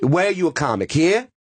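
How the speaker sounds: lightly mimicked skeptical grilling; imitating Dice. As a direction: quiz the newcomer, rising on the last word. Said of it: "points his finger, and goes".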